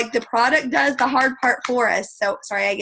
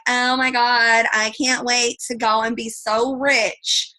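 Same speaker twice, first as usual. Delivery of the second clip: put-on bougie girl; slower than usual. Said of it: "girls on my team that are bougie".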